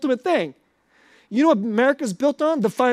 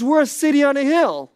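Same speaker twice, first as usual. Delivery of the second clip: Reagan speech; 4 semitones higher, 4 dB louder than usual. Retold or imitated. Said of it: "This is how he talked about America".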